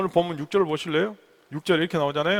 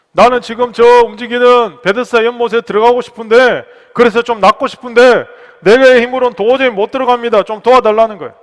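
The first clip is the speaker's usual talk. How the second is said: loud, higher-pitched appeal; impassioned preaching plea; 6 semitones higher, 12 dB louder than usual. Acted. Preacher voicing the sick man's plea for help, loud and impassioned. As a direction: plead it out from the pulpit.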